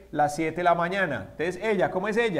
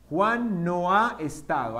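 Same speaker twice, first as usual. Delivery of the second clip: slow repeat. Shown as a demonstration. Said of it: "teacher repeats slowly".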